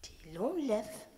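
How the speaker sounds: very slow menacing order; slow threat. Retold or imitated. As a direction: spell out the order slowly. The lady's threat.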